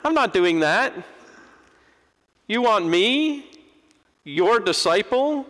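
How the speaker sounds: high, exasperated mock protest; indignant refusal. Preacher voicing his own refusal, high and incredulous. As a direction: play yourself balking at God's request. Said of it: "I'd have been like".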